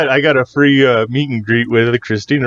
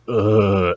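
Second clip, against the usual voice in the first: put-on character groan; exaggerated exasperated "ugh" in imitation; Napoleon Dynamite. Shown as a demonstration. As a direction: groan as the movie character's catchphrase noise. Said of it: "not the Napoleon Dynamite".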